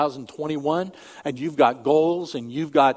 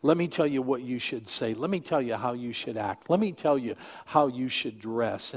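bossy adviser voice; 2 semitones lower, 7 dB quieter than usual. Retold or imitated. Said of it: "those voices might sound like this".

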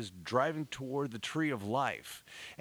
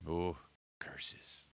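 low, hushed villain's curse; mustache twirling villain; 7 semitones lower, 7 dB quieter than usual. Acted. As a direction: mutter it like a cartoon baddie. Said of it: "now I'm twirling my mustache".

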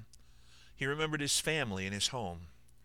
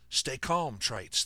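ordering; 4 semitones higher, 4 dB louder, much slower than usual. Acted. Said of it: "the surgeon ordered".

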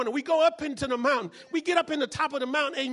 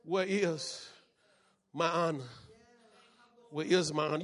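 hushed repeat; 8 semitones lower, 6 dB quieter than usual. Acted. Repeats quietly, low and slow.

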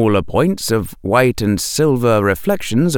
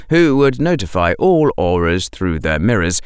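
ordinary delivery

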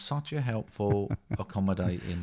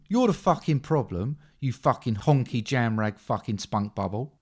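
snarling Cockney gangster, louder; Don Logan impression; 3 semitones higher, 3 dB louder than usual. Don Logan from Sexy Beast swearing at Kim, loud Cockney. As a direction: spit the abuse like a London heavy. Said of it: "met Don Logan from Sexy Beast".

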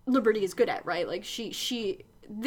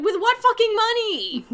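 sharp Spike; 9 semitones higher, 5 dB louder than usual. Retold or imitated. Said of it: "And Spike's like".

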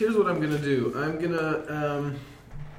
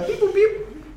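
toy robot voice; 4 dB louder than usual. Acted. Medic robot character beeping.

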